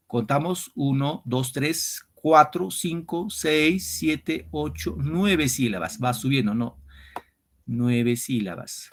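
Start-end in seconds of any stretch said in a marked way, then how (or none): 0.7-6.0 syllable counting. Shown as a demonstration. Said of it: "counting syllables".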